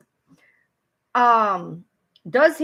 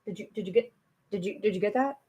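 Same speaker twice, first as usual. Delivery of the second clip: mimicking the other woman; 4 semitones lower, 8 dB quieter, faster than usual. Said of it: "next minute she's like".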